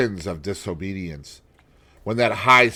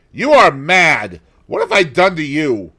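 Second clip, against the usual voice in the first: louder, higher, slowed alarmed cry; frightened protest; 7 semitones higher, 10 dB louder than usual. A narrator's reading. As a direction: plead in fear at gunpoint. Dorian held at gunpoint.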